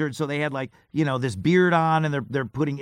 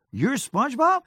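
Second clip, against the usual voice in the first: imitating the cop; 11 semitones higher than usual. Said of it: "you just go".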